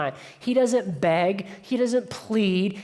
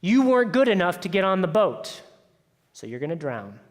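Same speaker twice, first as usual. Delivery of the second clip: dictator; 3 semitones lower than usual. Acted. Dictator God rejects people from the boat, stern verdict. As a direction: pass judgement, then sink to a cold finish. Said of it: "That's the dictator".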